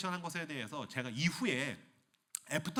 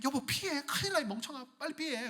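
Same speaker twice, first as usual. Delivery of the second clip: urgent wife, higher; 11 semitones higher than usual. Acted. Wife urging husband.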